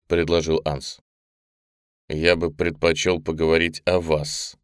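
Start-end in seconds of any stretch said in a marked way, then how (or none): 2.1-4.6 stern. Acted. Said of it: "сурово произнёс Коля".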